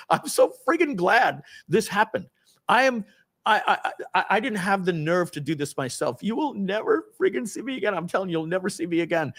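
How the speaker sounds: high, overwrought retelling; mock hysterical relief. Man telling coworkers he is glad it happened, mildly hysterical. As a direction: insist emotionally, as if between tears and laughter. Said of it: "I'm crying and, like, laughing at the same time".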